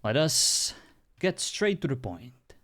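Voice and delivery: a touch of stately church leader, hushed then rising; lightly voiced holy leader. Plays holy leader in roleplay.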